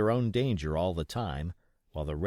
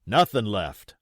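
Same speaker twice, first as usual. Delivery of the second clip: louder plain report; pirate report; 7 dB louder than usual. Acted. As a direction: state it. Pirate continues.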